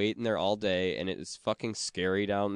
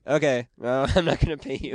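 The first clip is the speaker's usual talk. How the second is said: breaking into a laugh mid-refusal; cheeky no to the debt collectors, laughing; 4 semitones higher, 4 dB louder than usual. Retold or imitated. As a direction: chuckle through a cheeky refusal.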